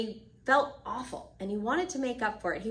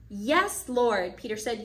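insistent answer; 3 semitones higher, 5 dB louder, slower than usual. Acted. Peter insists he loves Jesus.

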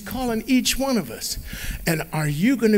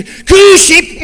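loud high call across the meadow; shepherd yelling for his lamb; 11 semitones higher, 14 dB louder than usual. Acted. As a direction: call out to the lost sheep. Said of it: "And he's yelling".

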